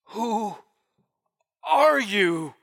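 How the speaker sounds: a touch of fear, halting; understated unsteady awe. Acted. Paul looking into the sky, asking haltingly. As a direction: break the question up hesitantly. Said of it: "his voice was not steady".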